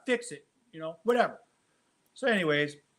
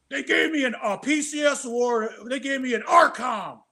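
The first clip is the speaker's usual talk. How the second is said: indignant complaint; 5 semitones higher than usual. Retold or imitated. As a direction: complain like a slighted sergeant. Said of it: "he goes".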